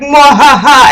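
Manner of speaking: mock evil cackle. Boyfriend throwing her clothes around, mock cackle. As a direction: imitate a cackle. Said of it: "starts cackling".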